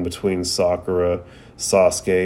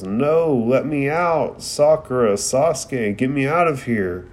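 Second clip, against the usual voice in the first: mock desperate yell, pitched up; yelling for help; 4 semitones higher than usual. Naruto calls to Sakura and Sasuke, a mild mock yell. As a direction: call out to friends in a retold panic. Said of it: "and he yells".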